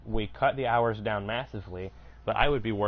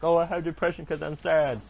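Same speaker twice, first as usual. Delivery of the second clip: mock self-diagnoser; 7 semitones higher, 4 dB louder than usual. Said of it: "not trying to self-diagnose of like".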